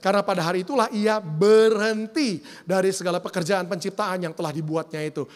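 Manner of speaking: steady, projected Bible reading; scripture reading. Acted. Pastor reading Genesis to the congregation, declamatory scripture reading. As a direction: read the verse out firmly to a congregation.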